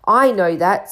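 mild irritation, understated; a slightly testy retort; irritably. Acted. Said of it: "said Professor McGonagall irritably".

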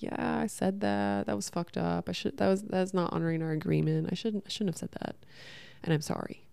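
voicing the ownership he never gave, quietly; imagined sincere apology. Narrator voicing the apology her partner should have given, softly. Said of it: "Instead of just being like".

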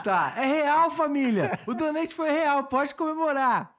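hyped high-pitched streamer voice; gamer voice. Shown as a demonstration. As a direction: pump it up like a streamer hyping chat. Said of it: "Voz de gamer".

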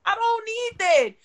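high whiny fake sob; whimpering in mock distress; mock crying. OnlyFans comment joked about.

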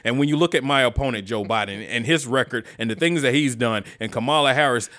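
lightly voiced long-winded debater; imitating filibustering politician. Mocking Pence's debate filibuster to a co-host, imitating a politician. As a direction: keep talking on like a stalling candidate. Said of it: "that motherfucker was out there filibustering. Just talking".

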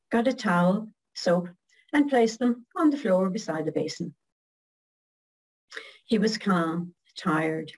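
tender poem read aloud, unhurried; poem recitation. Acted. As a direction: recite it like a heartfelt ballad.

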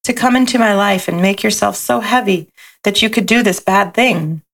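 gentle storybook read-aloud; lilting picture-book narration; reading to children. A narrator's reading.

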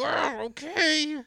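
very high, drawn-out exasperated scream; maddened yell. Retold or imitated. Driver honked at on green, screaming in exasperation. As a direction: screech it back at the honkers. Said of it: "I get even more mad".

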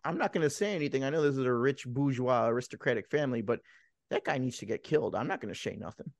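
hint of soap-opera servant; telenovela maid. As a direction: play a maid confiding what she claims she won't say. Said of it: "the telenovela maid where she's always like".

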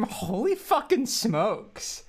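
slow, deliberate read of a silly name; drawn-out username. Real, not acted. Podcaster reads out a listener's silly username, drawn-out delivery. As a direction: stretch the name out slowly. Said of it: "Why you gotta say it like that?".

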